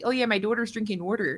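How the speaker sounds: imitated East Coast accent. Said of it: "East Coast accents".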